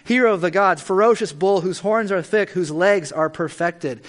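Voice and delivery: grand litany to a bull god; solemn prayer reading. Acted. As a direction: hail the god through his titles. Continues reading the Akkadian prayer.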